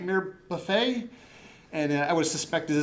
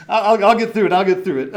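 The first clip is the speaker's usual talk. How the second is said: louder, laughing through breathlessness; laughing, pushing through; 4 semitones higher, 12 dB louder, faster than usual. Real, not acted. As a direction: push on while laughing it off. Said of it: "I'm out of breath up here".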